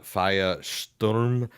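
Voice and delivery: "Feiersturm" slowly attempted, as FAH-yuh-shturm; "Feiersturm" in learner's German, unsure and slow; halting German pronunciation. Shown as a demonstration. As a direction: sound out "Feiersturm" with a drawn-out "sh" opening the second part. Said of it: "probably not still saying it right".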